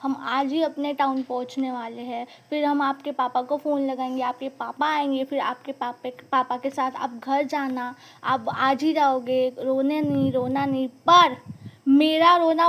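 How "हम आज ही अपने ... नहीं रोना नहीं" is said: softer, coaxing teacher voice; calm the crying child down softly; gentle soothing. Retold or imitated. Favourite teacher soothing a crying girl on the bus, softly. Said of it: "वो मुझे समझाने लगी".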